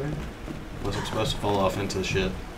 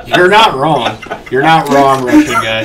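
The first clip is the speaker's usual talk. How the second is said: loud, higher put-on Russian accent; a loud, jokey fake Russian accent; mock Russian accent; 4 semitones higher, 14 dB louder than usual. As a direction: ham up a Russian voice. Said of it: "I don't know if that was Russian".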